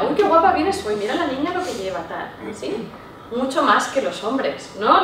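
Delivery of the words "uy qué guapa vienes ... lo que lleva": delighted family compliment; gushing compliment. Shown as a demonstration. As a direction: fuss over a relative's outfit. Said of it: "O a gente de nuestra familia".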